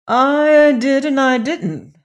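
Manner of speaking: lightly voiced prince, unsure. A narrator's reading. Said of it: "answered the prince".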